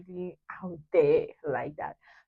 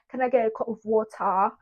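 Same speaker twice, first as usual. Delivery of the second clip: hammed-up British English request; mock British accent; 3 semitones higher than usual. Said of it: "how to speak the British English".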